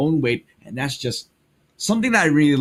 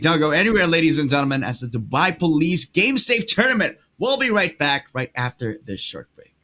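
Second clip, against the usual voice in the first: break announcement; 3 semitones higher than usual. Acted. Caster throws to break.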